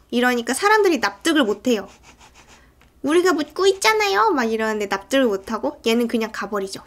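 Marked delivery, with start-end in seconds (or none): 3.0-4.3 high-pitched, acted-out complaint; mock insistent protest. Townspeople press the policeman for answers, mock insistence. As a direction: imitate an unconvinced crowd pressing back.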